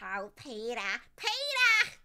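nasal, swooping cartoon mother voice. Attempting the Family Guy mom's voice for chat, Lois Griffin impression. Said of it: "chat likes me doing that voice".

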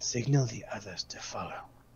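soft, hushed stage whisper in a put-on voice. Voicing a character giving an order to a companion: whispering in character. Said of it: "I whisper to him".

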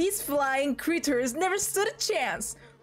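high, dumb anime voice. While playing a game, calling out in a My Hero Academia-style voice. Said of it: "Why do you talk like someone from My Hero Academia?".

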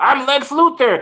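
whiny voice, high and slow. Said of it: "even when he was whining".

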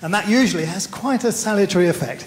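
plain

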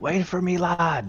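very high call, huffing and puffing, out of breath. A player's character running up to catch the others: huffing and puffing. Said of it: "I'm huffing and puffing as I run up".

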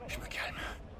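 soft, voiceless, forced-calm mutter under the breath.

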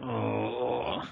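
very hushed, pained, creaky, drawn-out groan. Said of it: "groaning figure on the floor".

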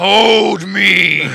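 put-on character voice, yelling and shouting. Charging at a kid in a game scene: yelling in character. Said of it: "I'm just gonna yell".

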